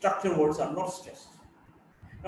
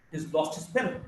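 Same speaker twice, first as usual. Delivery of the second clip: "He's lost his pen" in native rhythm; native sentence stress; 2 semitones lower, 3 dB quieter than usual. Shown as a demonstration. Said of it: "basically two words, lost and pen".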